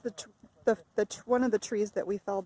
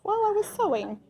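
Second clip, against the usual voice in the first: sheepish patient; 12 semitones higher, 6 dB louder than usual. Pretend. Acting out sheepish patient reply.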